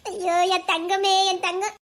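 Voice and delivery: slow, doting endearment; fond, soothing fussing; cooing. Acted. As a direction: coo over a crying darling. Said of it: "தங்கம்னு கொஞ்சிறவ".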